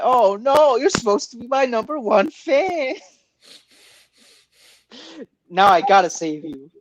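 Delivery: high, whiny hero in distress; Sonic voice. Pretend. Sonic voiced in a mock scene.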